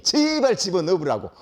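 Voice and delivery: slow, drawn-out imitation of begging; exasperated parent plea. Parents begging the teacher to have their kids locked up, exasperated. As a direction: stretch out the plea like a fed-up parent. Fed-up parents' answer, stretched out.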